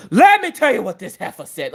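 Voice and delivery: sudden high-starting indignant outburst; mock-outraged morning tirade; fired-up rant. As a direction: burst straight back into the grievance. Resumes rant next morning.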